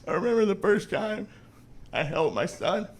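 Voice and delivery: mock choked-up, halting drunk sentiment; overly emotional. Drunk brother recalls holding his son, mock overly emotional. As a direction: imitate a tipsy dad getting weepy, pausing between phrases. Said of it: "he'll just get emotional, overly emotional".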